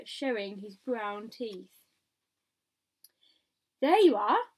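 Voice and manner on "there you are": loud, high, triumphant call. A narrator's reading. Police chief proving his point to others, calling out. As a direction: call it out as proof you were right. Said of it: "called the chief of police".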